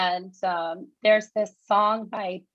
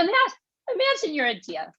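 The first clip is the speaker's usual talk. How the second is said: heated New York monologue, higher throughout; New York accent, indignant and higher; 3 semitones higher than usual. Acted. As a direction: build the story in a tough New York accent. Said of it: "So it's New York accent".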